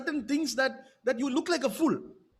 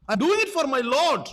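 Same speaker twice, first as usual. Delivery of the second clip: rising preach; 2 semitones higher, 5 dB louder than usual. Real, not acted. Preacher's climax.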